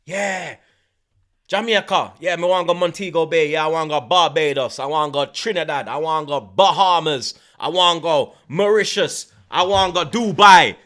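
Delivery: lightly voiced girl wishing; imitating girl. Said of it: "Them must say".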